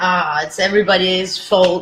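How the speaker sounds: ordinary talk, nothing marked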